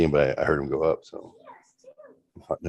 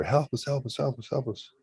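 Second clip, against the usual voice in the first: mock panic; 8 semitones higher, 5 dB quieter than usual. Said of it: "screaming out".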